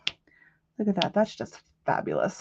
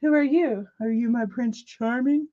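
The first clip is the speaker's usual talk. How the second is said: haughty princess voice, slow and higher; prissy princess; 4 semitones higher, slower than usual. Retold or imitated. Friend answering the delivery guy, hair flip, mock princess voice. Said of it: "flipping her hair like".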